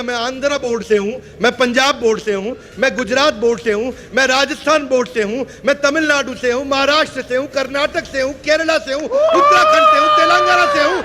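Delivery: starts plain, climbs to a loud high shout; building excited listing. Retold or imitated. Students naming boards, listing. (धीरे-धीरे बढ़ता हुआ जोशीला चिल्लाना)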